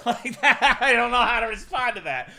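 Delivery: loud, high laughing outburst; real laugh breaking into the words. Real, not acted. Laughs through his reaction.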